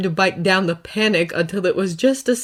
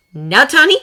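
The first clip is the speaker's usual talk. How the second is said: higher, louder outraged rebuke; angry scolding; 8 semitones higher, 9 dB louder than usual. Acted. Potts berating Tony for drinking, loud and angry. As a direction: tear into him for dodging responsibility.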